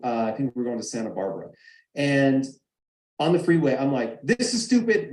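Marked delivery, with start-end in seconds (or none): 4.2-5.1 a sudden high, angry snap at the idea of the trip; angry outburst. Retold or imitated. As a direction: blurt it out in frustration from the car. Retold fight while driving.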